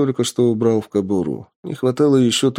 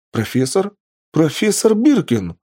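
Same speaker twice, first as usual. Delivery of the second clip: higher, surprised call to the professor; взволнованный оклик; 8 semitones higher than usual. Acted. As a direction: call out to him, rising with excitement. Лаборант окликает вернувшегося профессора. (взволнованно окликая профессора)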